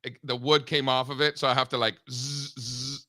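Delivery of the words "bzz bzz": soft buzzing drill sound; mimicking a drill gun, quietly; drill noise. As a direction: buzz like a power drill under your breath. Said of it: "with the drill gun".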